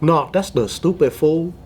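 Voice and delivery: imitated Vietnamese accent with Mexican slang. Showing how SGV Vietnamese kids talk, Vietnamese accent. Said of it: "with a Vietnamese accent".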